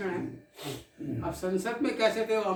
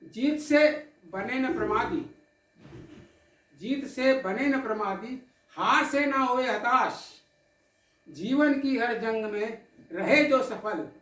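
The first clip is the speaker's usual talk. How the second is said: measured, dramatic poetic recital with held pauses; poem recitation; 2 semitones higher than usual. Acted. Poet recites tribute to the audience, in recital cadence. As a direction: recite it like a poet at a memorial gathering.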